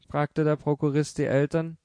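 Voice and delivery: plain reading voice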